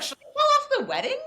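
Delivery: high, loud, fast alarm; retold frantic squeal; mock panic. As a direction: blurt it out in hammed-up panic. Retold panic during the quarrel.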